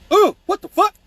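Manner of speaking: loud, high yelp of shock; mock pained outcry. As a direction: imitate a man who just hit his head. Acted man hitting the headboard.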